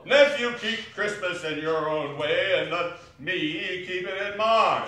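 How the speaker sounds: loud, high, exasperated shout; irate uncle's rebuke; angry. Acted. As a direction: order the nephew off the subject. Scrooge quarrels with his nephew.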